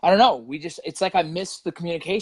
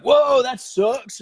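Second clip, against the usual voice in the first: laughing mock hurt; 9 semitones higher, 6 dB louder, much slower than usual. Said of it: "And you're like".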